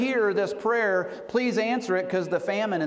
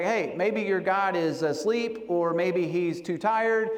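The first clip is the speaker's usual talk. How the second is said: mock taunt. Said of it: "not trying to just be a smart aleck".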